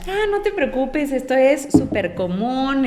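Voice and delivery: high-pitched imitation of a reassuring shop assistant; breezy reassurance. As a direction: wave the worry away, starting high and easing down. Shop assistant reassuring pregnant bride.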